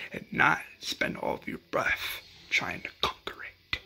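hushed whisper in a retold speech. Dale handing the watch over in a hush. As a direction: breathe it out like a secret gift. Dale's solemn speech to Morales.

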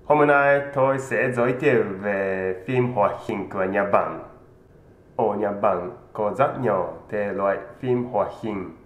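normal talking voice

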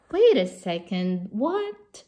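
startled, voice jumping up; surprised. Acted. Reader protests in disbelief.

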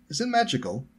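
very high, eager question; curious. A narrator's reading. Hermione examines the walking stick, curious. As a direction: ask with bright-eyed curiosity, high. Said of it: "she asked curiously".

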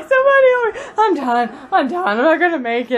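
hammed-up kid sure he's dying; mock dying kid. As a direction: play up a dramatic kid. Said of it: "and he was like".

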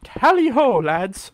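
high, loud opening that drops at the end; rallying cry. Pretend. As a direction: call the troops to charge. Calls out the battle cry.

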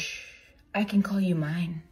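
soft breathy whisper in the ear. Acted. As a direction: whisper it close and secret. Whispered pickup line.

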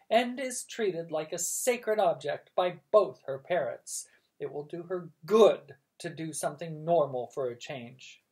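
bossy aunt. Acted.

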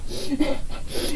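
soft, voiceless little laugh; breathy chuckle. Real, not acted. Host pleased to see a winner, soft chuckle.

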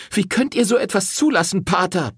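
high, loud furious outburst; woman bursting into the rectory, yelling; yelling at priest. A narrator's reading. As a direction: hurl the accusation at him. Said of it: "brüllte sie".

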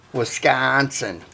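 Wisconsin said slowly in a local accent; slow, demonstrative Wisconsin accent; put-on Wisconsin accent. Shown as a demonstration. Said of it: "You notice the accent".

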